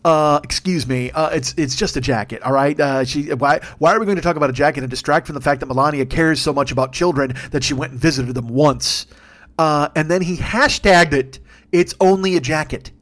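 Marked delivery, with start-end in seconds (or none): 0.1-9.1 lower, hesitant excuse-making; stumbling official defense; put-on indignant spin; mock spokesman. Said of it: "her spokesman is like".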